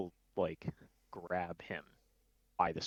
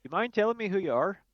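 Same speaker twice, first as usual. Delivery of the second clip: higher, louder, pointed challenge; suspicious demand; 12 semitones higher, 6 dB louder than usual. Acted. Glamdry confronting the impostor, a suspicious demand.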